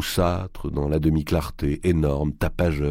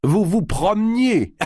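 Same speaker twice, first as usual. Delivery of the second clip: high laughing mock disbelief; laughing incredulous; 5 dB louder, slower than usual. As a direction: laugh the question out, slow. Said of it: "Le géant éclata de rire".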